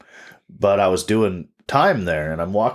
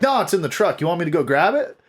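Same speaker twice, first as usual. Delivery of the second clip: deadpan threat; 9 semitones higher than usual. Retold or imitated. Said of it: "I was just like".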